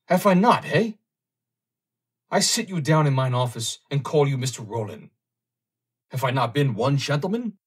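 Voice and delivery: put-on high, loud pleading in a German accent; a frantic underwriter pleading in a German accent; excited German accent. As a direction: beg him in a thick German accent. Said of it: "relapsing in his excitement into the more pronounced dialect".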